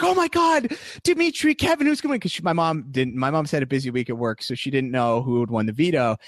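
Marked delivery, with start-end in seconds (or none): 0.0-2.2 imitating mom. Mom excitedly asking who wins.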